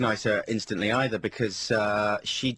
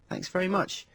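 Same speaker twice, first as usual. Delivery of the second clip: retold patronising smile in the voice; 8 semitones higher than usual. DJ thanking an unrecognised fan, patronising. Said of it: "smiling in a patronising way".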